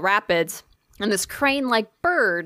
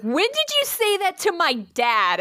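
high incredulous question; 10 semitones higher than usual. Retold or imitated. Kevin's confusion retold.

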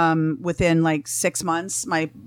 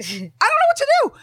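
high squeal of a doctor at a loss; imitated exasperation; 3 dB louder than usual. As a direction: mimic her helpless wail, pitched way up. Retold doctor at her wits' end.

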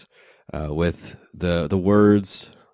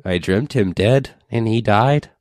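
put-on old crone voice; 3 semitones higher than usual. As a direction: croak it like a wine-soaked crone. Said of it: "She says".

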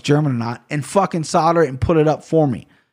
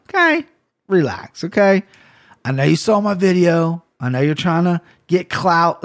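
mock taunt; 3 semitones higher than usual. Real, not acted. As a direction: needle him playfully, bro to bro. Taunting fighter Darren Till.

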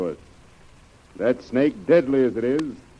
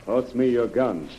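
calm and careful; 5 dB quieter than usual. Acted. Calming servant near cobra.

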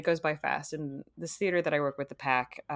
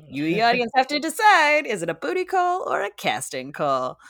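game show host. Pretend. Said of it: "my bit where I do a game show host".

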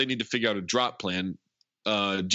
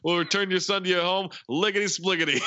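a hammed-up, higher creepy villain giving orders; mock villain voice; 5 semitones higher than usual. Villain mocking the cops' instructions, pitched up and hammy. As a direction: play the gleeful kidnapper, pitched up.

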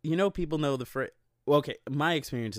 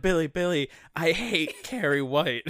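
mocking quote; 4 semitones higher, 4 dB louder than usual. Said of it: "She's like".

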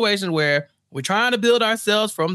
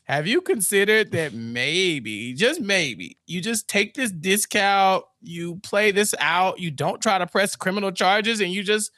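coaxing lawyer; slower than usual. Retold or imitated. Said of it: "He's like".

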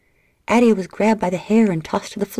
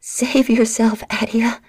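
slow, higher pleading insistence; insistent plea; 5 semitones higher, 3 dB louder, slower than usual. A narrator's reading. Livia insisting her sister save herself, slow. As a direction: plead slowly and firmly. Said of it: "Livia insisted".

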